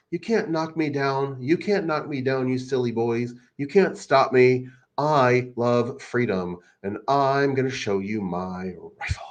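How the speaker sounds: a hint of a boastful taunt, mimicking him; mock him with stretched-out defiance; assumed voice, mock. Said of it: "I just assume that he talks that way".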